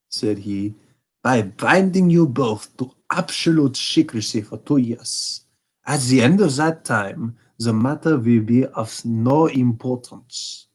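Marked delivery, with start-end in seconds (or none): 1.2-10.7 a hint of a haughty German king; Bohemian king. King speaks.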